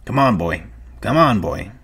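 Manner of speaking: gently coaxing; gentle. A narrator's reading. Carlson leading the old dog away, gentle. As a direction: coax an old dog along. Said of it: "he said gently".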